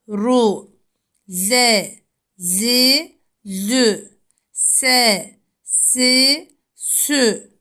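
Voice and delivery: "Sa, si, su" said thick, the S heavy and full; letter drill. Shown as a demonstration. Teacher drills Arabic letter sounds for pupils. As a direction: model each syllable firmly. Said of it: "Sat harfi kalın bir harftir".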